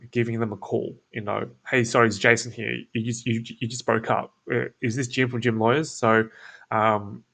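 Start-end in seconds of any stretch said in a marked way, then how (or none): 1.7-5.9 easy, friendly phone voice; casual laid back. Shown as a demonstration. To the lead on a cold call, relaxed and casual. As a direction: sound like an old acquaintance. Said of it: "someone who kind of already knows them".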